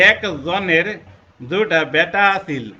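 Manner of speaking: Bogura dialect. Shown as a demonstration. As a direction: say it like a Bogura villager, slowly. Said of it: "বগুড়াতে আলোচনা করব".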